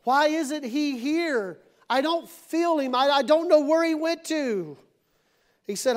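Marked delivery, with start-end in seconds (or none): 0.0-4.8 complaining. Acted. Voices believers' complaint about absent God.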